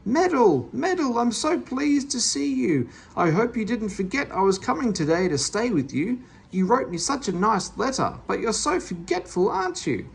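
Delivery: put-on old woman greeting Meddle from her cab; fat old lady. A narrator's reading. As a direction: gush like a doting old aunt.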